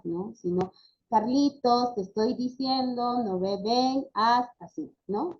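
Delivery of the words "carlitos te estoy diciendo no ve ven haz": firm, intense command without yelling; insistent, commanding voice. Shown as a demonstration. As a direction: call the child with force, stopping short of a shout. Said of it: "tener una voz intensa, ya? No gritar".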